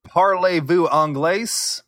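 a slow, hammed-up French accent; mock French accent; horrible French accent. Greeting French listeners in a bad French accent. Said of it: "he has a horrible accent".

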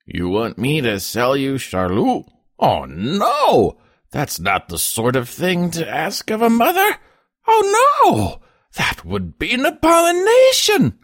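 outrage building to a high, loud cry; furious. A narrator's reading. Peasant mother refusing to sell her child, furious. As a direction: start indignant and climb to a shrill shout. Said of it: "The woman had arisen furious".

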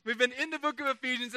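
loud, drawn-out pretend "so sad"; hammed-up group lament, stretched out slowly; mock sadness. Pastor cueing the congregation to lament, mock sad. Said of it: "Everyone go, "Aw, I'm so sad".

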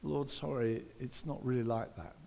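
soft, sheepish sorry to the Lord; quiet apology. Retold or imitated. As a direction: murmur it apologetically. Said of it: "often we feel".

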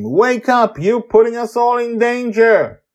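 high, loud urgent rebuke; angry shout. A narrator's reading. Susie blames Justin for the danger, shouting. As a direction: shout him out of his daze. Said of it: "Susie shouts at him".

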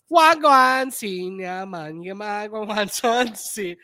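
loud opening, drawn-out mock Jamaican chant; mock Jamaican patois. Host mimics the music that don't match, mock Jamaican patois. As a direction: imitate a Jamaican patois singer.

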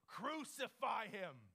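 slow, forceful mock cry; desperate scream. Preacher quoting the crowd's demand, desperate scream mildly acted. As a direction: imitate a crowd's scream, held back. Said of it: "angry or desperate scream from your heart".

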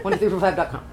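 laughing through the joke address; laughing repeat. Pretend. Co-host repeating the joke address, laughing. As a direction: giggle while repeating the fake number.

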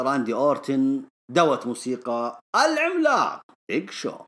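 ordinary talk

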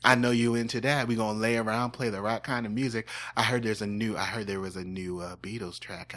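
lightly voiced nasal Southern man; Dean Sessions. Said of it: "I really hate this voice".

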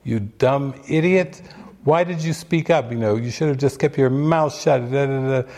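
imitated self-scolding rant; ego ranting. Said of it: "it was just ranting".

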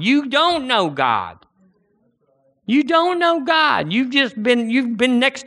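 preacher's indignant crescendo; rising rebuke. Real, not acted. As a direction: hammer it home, pitch rising each time.

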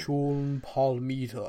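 slow Shakespearean name reading; lightly voiced theatrical actor; classic English actor. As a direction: draw it out like a stage thespian. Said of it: "in a Shakespeare, uh, production".

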